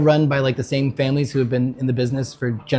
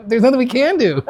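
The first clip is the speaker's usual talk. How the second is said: raised, laughing mock despair; mock panic; 9 semitones higher, 4 dB louder than usual. Retelling a friend's panic over missing chili, a hammed-up wail. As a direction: play up the hopeless panic. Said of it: "Panic starts to set in".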